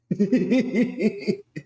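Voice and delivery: high-pitched cackling laugh; high cackle. Real, not acted. Laughs at getting old.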